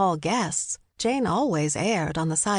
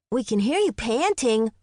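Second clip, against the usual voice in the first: lightly voiced boy's taunt, raised pitch; teasing boy; 5 semitones higher than usual. A narrator's reading. Twin teasing his out-of-breath mother, mildly taunting. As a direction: tease her in a higher boyish voice.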